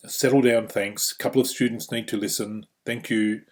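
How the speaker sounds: brisk, matter-of-fact directive; firm opening, then an even thanks; not pleading. Shown as a demonstration. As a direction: direct the class without begging. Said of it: "not a pleading statement".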